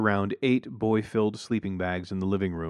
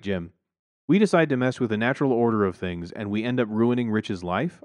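usual speaking voice

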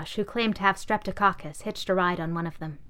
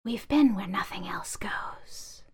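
whispering bag; slower than usual. Acted.

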